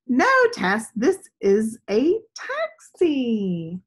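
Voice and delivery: a hint of a kind friend correcting her; patient boy answering. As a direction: friend Gus gently correcting Tess, lightly voiced. Gus answers Tess in story.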